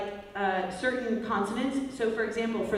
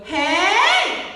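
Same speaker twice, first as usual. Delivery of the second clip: higher, louder bratty hey; whiny kid call; 9 semitones higher, 10 dB louder than usual. Shown as a demonstration. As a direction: clap and shout a whiny hey. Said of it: "keep it whiny in the top".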